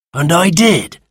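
put-on slow, weary old creature; slow sand fairy voice. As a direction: drag it out like ancient history.

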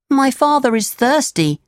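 put-on high puppet boy voice; Pinocchio, concerned. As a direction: speak up for a thirsty father.

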